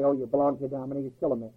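lightly voiced scoffer, hurried; mocking critics. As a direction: toss off their words quickly, half-mocking. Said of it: "Oh, I know what they say".

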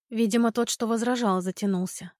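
ordinary delivery

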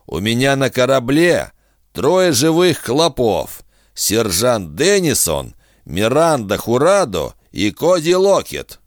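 a hint of a smug bargaining villain; sly bounty hunter. Kusaka voiced in narration.

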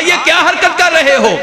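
stern reproach from the companion; angry rebuke. Retold or imitated. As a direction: scold them as if catching a crime. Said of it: "غصے والا انداز ہے".

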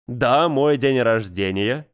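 slow, put-on shyness; mock embarrassed. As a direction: play it falsely bashful. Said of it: "нарочито смущённо произнёс он".

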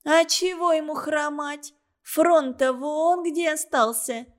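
a mocking dig; sarcastic. A narrator's reading. Галка sneers at the limping man, sarcastic. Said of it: "язвительно заметила Галка".

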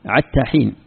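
عتى with an ain instead of ha; Hudhayl reading. Shown as a demonstration. Teacher showing Ibn Masud's Hudhayl reading, ain for ha. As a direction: say عتى with a throaty ain where حتى has ha. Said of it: "في قراءة ابن مسعود موجودة".

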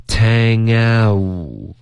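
"tang out" said slowly, ending with rounded lips on "out"; "tang out" with a gliding ow diphthong; correct diphthong. Shown as a demonstration. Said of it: "这个就出问题了".

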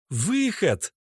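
high incredulous scorn; scornful echo. A narrator's reading. Natasha scoffs at Oleg's word. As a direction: throw his word back.

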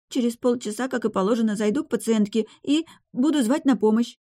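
put-on high, eager young woman's voice; girl. A narrator's reading. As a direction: niece laying out plan. (девушка, высоким голосом, торопливо)

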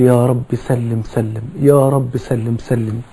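very slow, soft repeated plea; pleading prayer. Retold or imitated. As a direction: draw out each word like a quiet supplication. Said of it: "وعمال يدعو ويقول". (النبي يدعو لأمته: رجاء بطيء خافت)

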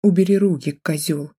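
hoarse, strained voice. Acted. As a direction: rasp it out in pain. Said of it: "прохрипела я".

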